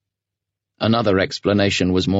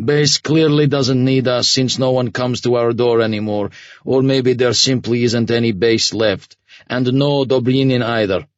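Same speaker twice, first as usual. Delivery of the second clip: grim, even officer voice; flat commander voice; 6 semitones higher, 4 dB louder than usual. A narrator's reading. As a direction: say it flatly, without hope. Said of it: "the commander said flatly".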